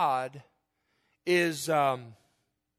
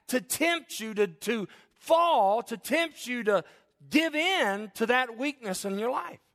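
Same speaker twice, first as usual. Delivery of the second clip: emphatic preaching; 5 semitones higher than usual. Real, not acted. Preacher warning congregation how Satan uses their weakness, emphatic preaching. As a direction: drive each phrase home to the congregation, pitched up.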